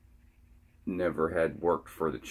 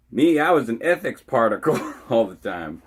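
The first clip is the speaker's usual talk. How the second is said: put-on light Cajun accent, raised and louder, with a laugh; a playful bit of Cajun accent slipped in; laughing Cajun-accented aside; 6 semitones higher, 8 dB louder than usual. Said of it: "that was a little Cajun accent for you".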